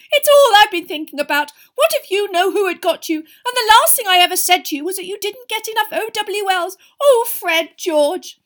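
very high, loud tearful wail; sobbing. A narrator's reading. Mother clutching her twins, sobbing with guilt. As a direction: hysterical guilt, wailed out. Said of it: "starting to sob".

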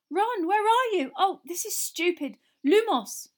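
put-on high, loud, urgent girl's voice; anxious girl calling. A narrator's reading. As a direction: call out for Ron, then cast. Hermione lost in dark, calling.

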